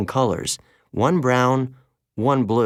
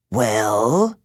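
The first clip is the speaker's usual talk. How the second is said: demanding; 3 dB louder than usual. A narrator's reading. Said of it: "the woman demanded".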